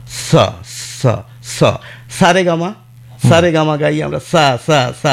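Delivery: স and সা with a hissing dental s, tongue behind the teeth; স sung up the scale as সা রে গা মা, crisp dental s. Shown as a demonstration. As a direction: hiss স, সা রে গা মা with the tongue at the tooth ridge. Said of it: "ওই হচ্ছে দন্ত স্বয়ের উচ্চারণ".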